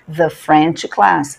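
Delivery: slow the French class, the as a short thuh; thuh before consonant. Shown as a demonstration. Teacher drilling the before a consonant. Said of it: "the class".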